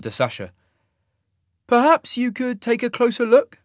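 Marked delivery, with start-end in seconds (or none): 1.7-3.6 much higher, measured, louder officer voice; cool alien officer. Acted. Fade officer to Sasha, a cool higher suggestion. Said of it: "he suggested".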